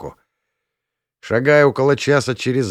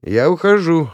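higher, louder exclamation; exclaimed; 7 semitones higher, 5 dB louder than usual. A narrator's reading. Dorish announces she's leaving, exclaiming loudly. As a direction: cut him off with a sharp cry. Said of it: "воскликнула Дориш".

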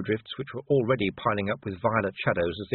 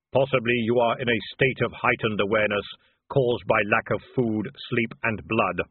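hollow, louder solemn voice; Death; 3 dB louder than usual. Acted. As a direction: speak as calm, grave Death. Death speaks.

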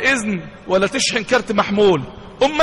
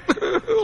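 high, soft imitated sob; put-on weeping noise; mock sobbing; 10 semitones higher, 4 dB quieter than usual. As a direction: act out a short crying whimper. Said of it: "راح قاعد يعيط".

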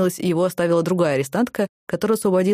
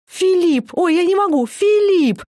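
high, loud, helpless with laughter; snorting with laughter; 12 semitones higher, 5 dB louder, much slower than usual. A narrator's reading. Katya mocking Diana's idol, shrieking with laughter. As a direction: squeal the name through laughter. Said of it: "хрюкала от смеха Катя".

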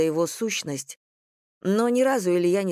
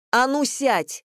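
higher, louder sharp command; shouted order; 6 semitones higher, 3 dB louder, slower than usual. A narrator's reading. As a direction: bark at him to sit down. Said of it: "выкрикнула она".

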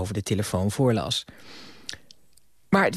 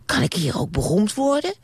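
much higher eager question; childish Bram; 10 semitones higher than usual. Acted. Bram asking the TV host, high eager voice. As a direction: ask it like a hopeful little boy. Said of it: "vroeg Bram".

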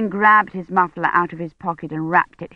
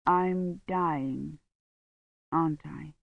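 much softer frail question; faint dying voice; 2 semitones lower, 10 dB quieter, much slower than usual. A narrator's reading. Badri in his sickbed asking Dunworthy, a faint dying voice. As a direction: ask it with no strength left.

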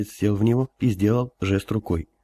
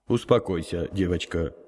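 kindly elder; 3 semitones lower, 3 dB quieter than usual. Acted. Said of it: "доброжелательно произнёс старец".

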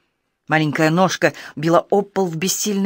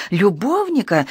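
a mild, slightly higher outraged squeal on "Любовника?"; shriek; 3 semitones higher, slower than usual. Acted. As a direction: toss back "Любовника?" in outrage. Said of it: "взвизгнула она". (слегка взвизгнуто, возмущённо: «Любовника?»)

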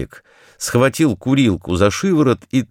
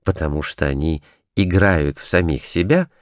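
ordinary delivery

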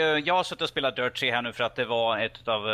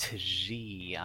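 deadpan answer; 3 semitones lower, 6 dB quieter than usual. Real, not acted. Repeats number when asked again.

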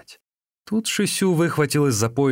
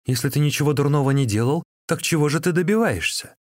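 higher, louder and quick; wife challenging her brother-in-law, fast raised retort; defiant retort; 7 semitones higher, 4 dB louder than usual. Acted. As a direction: snap back defensively.

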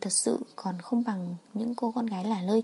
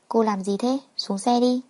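louder, commanding man's line in narration; brusque order; 5 dB louder than usual. Acted. Man orders the girl out of his car, brusque. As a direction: order her out, raising the voice a little.

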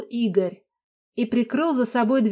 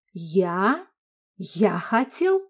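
flaring husband; much slower than usual. A narrator's reading. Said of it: "вспыхнул Игорь".

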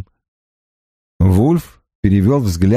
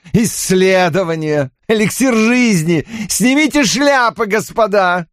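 насмешливое восклицание, высоко; издевательски провозгласить; с усмешкой; 12 semitones higher than usual. A narrator's reading. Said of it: "с усмешкой вставил племянник". (племянник глумится над исследованиями Дэниела)

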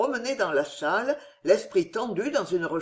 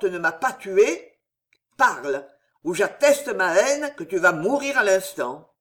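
angry threat; 3 dB louder than usual. Acted. Old captain threatens Henri.

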